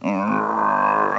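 long, drawn-out "arrgh"; imitated cartoon groan of reluctant tears; mock crying groan. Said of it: "and they're crying".

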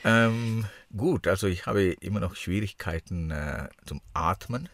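broken nose, struggling to breathe through it. Real, not acted. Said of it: "Ja, man hört's, glaub ich, ein bisschen. Du klingst anders".

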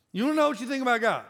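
a preacher's punched repeat; preaching emphasis. Shown as a demonstration. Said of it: "No, you wanna know what you think about God".

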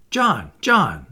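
a child calling his brother, lightly acted; crying out. A narrator's reading. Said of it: "Michael would cry".

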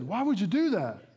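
imitating a baffled stranger; mock puzzlement, lightly acted; puzzled questioning.

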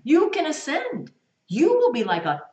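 loud, high, slow proclamation; mock cult preacher's loud promise; cult leader proclaiming.

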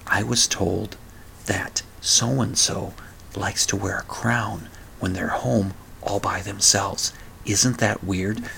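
soft, low, hushed gossip; whispering. Shown as a demonstration. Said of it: "it's like this ... That's whispering".

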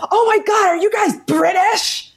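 high-pitched, gushing amazed waiter; excited waiter. Retold or imitated. Waiter discovering British customers, excited and amazed. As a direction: imitate an astonished waiter, high and drawn out. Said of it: "And he went".

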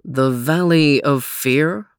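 a hint of dread in the question; wary question. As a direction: Overton repeats it, slow and wary. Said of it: "asked Overton".

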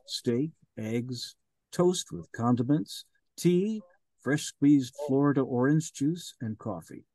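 measured, even storytelling read; audiobook narration. Acted. Narrator sets a band's Miami breakfast scene, in an even storytelling read. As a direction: read the scene to listeners, steady and clear.

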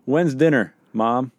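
put-on high kid calling out to Mom; yelling across the room. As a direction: call out across the house for dinner.

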